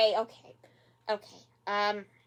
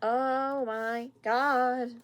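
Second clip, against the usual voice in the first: stunned oh my God; much slower than usual. Real, not acted. Reacting in shock to the show.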